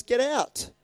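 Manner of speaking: stern commanding rebuke; commanding Jesus. Acted. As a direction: order the demons out with full authority.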